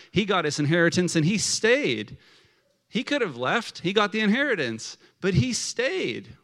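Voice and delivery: acted-out impressed approval; admiring onlooker. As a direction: marvel at his loyalty. Acted audience admiring the brother.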